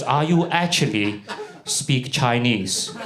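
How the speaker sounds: slow, deliberate mock questioning; suspicious dad. Host dad questioning the fake Chinese guest, slowly suspicious. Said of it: "the dad looks at me, he goes".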